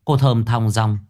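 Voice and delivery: plain reading voice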